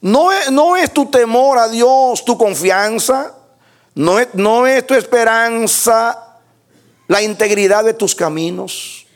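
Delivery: high, loud, drawn-out pulpit challenge; preacher crying out a rebuke; accusing scripture declamation. Acted. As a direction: hurl Eliphaz's questions at Job, stretching key words. Declaims Eliphaz's challenge to Job.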